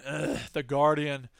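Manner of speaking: low, slow scoff at The Guardian; disdainful. Acted. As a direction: sneer at the name. Scoffs at the source.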